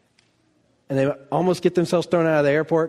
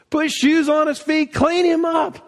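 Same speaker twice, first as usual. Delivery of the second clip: excited shout; 9 semitones higher than usual. Acted. Preacher shouting the father's orders, exultant.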